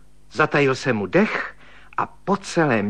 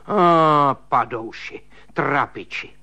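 higher wailing complaint; higher self-pitying rant; railing; 4 semitones higher than usual. Acted. Spinster keeps railing.

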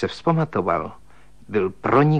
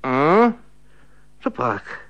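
higher, drowsy woman's murmur; sleepy woman; 3 semitones higher, slower than usual. Acted. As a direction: mumble as if just woken. Woman woken in the dark.

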